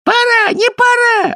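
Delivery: high, slow squealing chant; gleeful kikimoras. A narrator's reading. Kikimoras happily block the path, squealing chant. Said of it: "обрадовались кикиморы".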